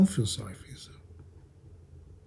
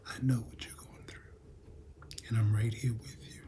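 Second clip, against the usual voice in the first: soft unvoiced whisper of Jesus speaking close; 2 semitones lower, 8 dB quieter than usual. Preacher voicing Jesus to the hurting, whispered. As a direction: breathe it like a tender secret.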